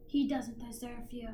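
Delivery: put-on Italian accent. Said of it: "He's Italian, so he has an accent".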